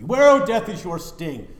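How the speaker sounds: high, loud triumphant cry; ringing proclamation. Shown as a demonstration. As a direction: hurl the question at death. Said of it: "repeat with contrast".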